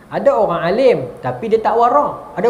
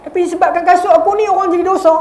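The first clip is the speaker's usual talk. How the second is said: quoting the scholar's lament; 8 semitones higher than usual. Retold or imitated. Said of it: "Ini yang Bashir Al-Hafi kata".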